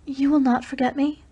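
"will" lifted high, ending on a rising lilt; a high, lilting "You will not forget me?"; lilting question. A narrator's reading. Dalisa asking Race in a lilting voice. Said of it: "her strangely lilting voice".

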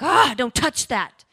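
drawn-out, mock-wounded recoil; mock snarl. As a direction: imitate someone snapping when a sore spot is touched. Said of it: "you snarl and growl".

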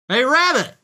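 high, loud call through a door; yelling. A narrator's reading. Piglet calls to Rabbit from outside, yelling. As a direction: call out to someone inside. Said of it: "someone yelled outside".

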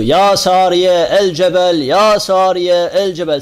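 slow, loud drawn-out call. Retold or imitated. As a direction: call across the distance, slowly and loudly. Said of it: "bağırdı". (yavaş ve yüksek sesle seslenme)

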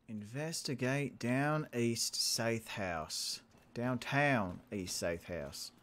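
slow, drawn-out mock southern; hammed-up southern US accent, unhurried; bad southern accent. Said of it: "a southern accent is the".

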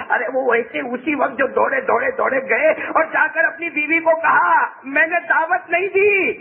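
rising sermon fervour, stretched at the end; full-force preaching. Acted. Preacher telling how the companion ran to his wife, high and impassioned. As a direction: build to a high pitch.

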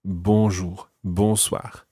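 BONJOUR and BONSOIR with a nasal first vowel, no hard N; nasal BON. Shown as a demonstration. Teacher showing the same beginning, nasal. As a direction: nasalise the opening syllable of both BONJOUR and BONSOIR. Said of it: "it's that nasal sound".

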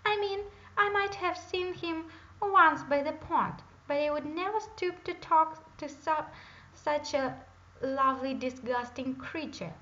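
high, loud, squirming denial; flustered bratty princess. A narrator's reading. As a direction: trip over the lie, then spit out disgusting.

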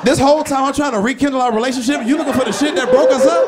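high, loud, laughing through the words; laughing outrage. Real, not acted. Comedian laughing at his dad's betrayal, loud and high. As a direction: crack up while shouting it.

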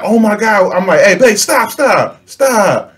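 high urgent stop stop stop; mock panic as the stepdad intervenes; alarmed pleading. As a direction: rush in to break it up. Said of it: "So I'm like".

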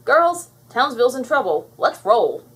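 loud, punchy leader's summons; rally the team to action; rallying call. Acted. Blossom summoning her sisters to save Townsville, rallying.

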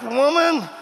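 high, pleading "woman"; hammed-up exasperated appeal; mock exasperation. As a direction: playfully scold your wife. Exasperated at wife.

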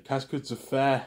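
slow French "Qu'est-ce que tu fais"; mock French question. Coworkers question her in French, slowly. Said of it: "They tell her in French".

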